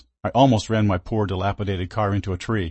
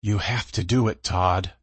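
low breathy voice; slower than usual. Acted. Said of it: "he said in a low, breathy voice".

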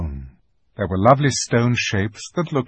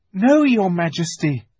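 put-on timid boy; 9 semitones higher, 5 dB louder than usual. A narrator's reading. Boy answers the witch.

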